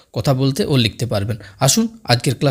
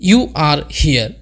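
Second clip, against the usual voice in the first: slow teaching demo; much slower than usual. Shown as a demonstration. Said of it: "নেক্সট".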